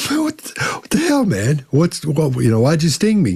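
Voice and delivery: high, startled squeak of outrage; the stung frog crying out in disbelief; shocked yelp. Retold or imitated. Frog yelps high at the scorpion who stung him.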